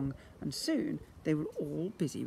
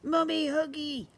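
put-on high, louder toddler squeal; screaming baby; 12 semitones higher, 5 dB louder than usual. A narrator's reading. Baby demands a hug from mother, high squeal. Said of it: "screamed the baby".

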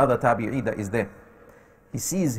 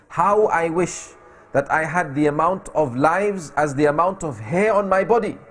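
impassioned wish; 2 semitones higher than usual. Retold or imitated. Captive's impassioned wish before death.

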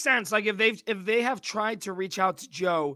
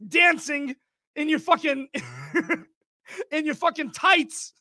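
mock angry dad; 4 semitones higher, 5 dB louder than usual. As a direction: sneer out the Broadway insult like a hammed-up mob dad. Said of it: "he's like".

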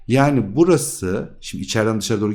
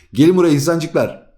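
higher and louder, calling everyone over; playful loud call; 4 semitones higher, 5 dB louder than usual. Pretend. Teacher loudly calls the students to come over. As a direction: shout it like summoning a crowd.

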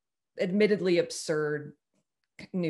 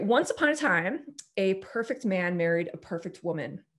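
narrator voice. Shown as a demonstration. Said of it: "I'm gonna put on my best narrator voice".

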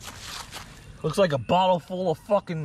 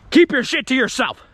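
raised, louder mock-angry warning; stern warning; 4 semitones higher, 5 dB louder than usual. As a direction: lay down a firm boundary. Warns off, then exaggerates same line.

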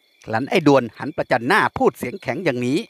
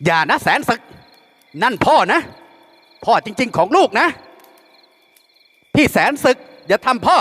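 panicked pleading cry; 9 semitones higher than usual. A narrator's reading. Mother and daughter beg Saensuek not to harm his father, panicked. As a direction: beg him to stop, voice cracking. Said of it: "ร้องห้ามเสียงหลง".

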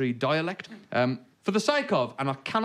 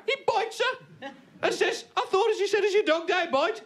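Black Country joke voice. Acted. Telling dialect joke, high.

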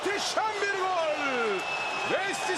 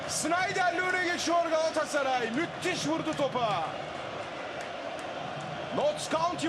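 high, thrilled commentator; excited commentary; 5 semitones higher than usual. Real, not acted. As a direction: keep the goal buzz going. Replaying goal build-up excitedly.

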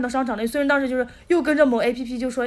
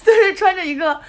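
laughing; 5 semitones higher than usual. Real, not acted. Laughing while telling the story.

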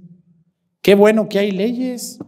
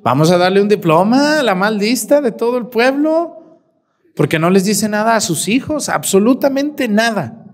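sarcastic praise; 3 semitones higher than usual. Acted. Sarcastic prize for permissive mother.

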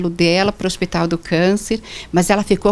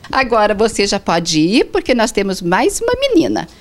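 ordinary talk

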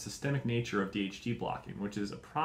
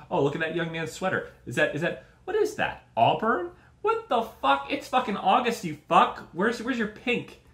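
loud, high, outraged mock gasping at the sweater; shrieking fake outrage at a sweater; mocking high exclaiming voice; 7 semitones higher, 6 dB louder than usual. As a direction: squeal it out like a scandalized onlooker. Mocking the family photo aloud.

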